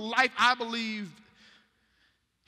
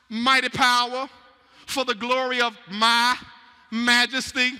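proud king boasting; 5 dB louder than usual. Acted. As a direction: declare it like a king admiring his own empire. Preacher voicing proud king.

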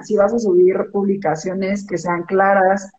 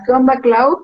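breezy, overly familiar greeting, pitch up; mock casual text greeting; 5 semitones higher, 3 dB louder than usual. Reading a sloppy text from a client, mock casual. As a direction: toss it off like a careless text. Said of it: "un mensaje que pongas".

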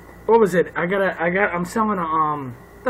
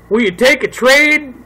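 slow, higher mock southern drawl; southern accent; 4 semitones higher, 4 dB louder than usual. Buyer texts an offer on the tool set, southern accent. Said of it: "why do I say that in a southern accent".

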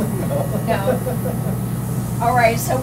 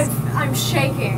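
shivering; 2 semitones higher, slower than usual. Real, not acted. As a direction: voice shaking from the cold. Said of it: "I am utterly shaking".

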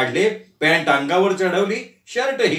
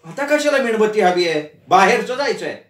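irritated snap; 4 semitones higher than usual. Acted. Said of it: "Arundhati पण तिरसटली".

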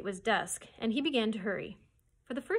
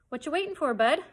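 a lightly voiced usher, pitched up and louder; a hint of a brusque theatre usher; gruff usher; 6 semitones higher, 7 dB louder than usual. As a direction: hustle the kid out like a busy usher. Usher hurrying the boy out.

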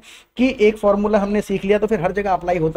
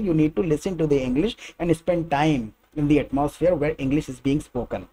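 slow, lower, careful English; measured advice; slow clear English; 4 semitones lower, 4 dB quieter, much slower than usual. Shown as a demonstration. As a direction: lay it out slowly. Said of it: "English said slowly for learners".

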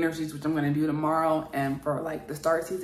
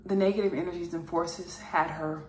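a touch more solemn and deliberate, with pauses between phrases. Acted. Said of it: "So we'll have Michael next".

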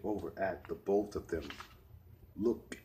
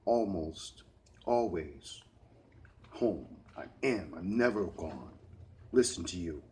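sarcastic and angry. Acted. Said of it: "in a sarcastic but angry tone".

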